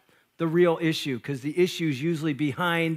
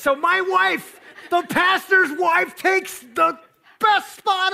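much higher, louder, slow mock shout; hammed-up outrage; 12 semitones higher, 3 dB louder, slower than usual. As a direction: play the scandalised husband for laughs. Mock outrage at his wife.

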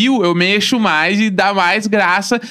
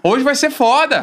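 higher, slower hyped self-pep; hyped pep talk; 6 semitones higher, slower than usual. Pretend. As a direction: pump yourself up for the day.

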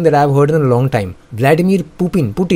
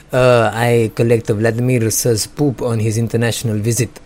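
put-on light, lower Russian accent; hint of a mock Russian accent, lower; 4 semitones lower than usual. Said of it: "that's my, uh, Russian accent".

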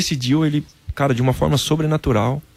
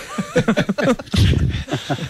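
high breathy burst of laughter; 9 semitones higher than usual. Real, not acted. Laughing at asking the lady to tell his wife, high laugh. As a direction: laugh it off, higher up.

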